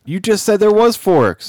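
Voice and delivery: high, loud, drawn-out protest; indignant outburst. Real, not acted. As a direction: call out the lie in loud disbelief. Protests the co-host's false claim.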